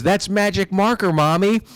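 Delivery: hint of a giggly little boy confessing; cheeky kid reveal. Son telling mom the stain is marker, cheeky kid voice. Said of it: "he goes".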